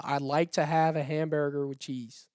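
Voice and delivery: American accent. Shown as a demonstration. Australian ballplayer imitating the interviewer's sentence, in an American accent. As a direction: repeat it in a put-on American accent. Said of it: "Can you do an American accent?".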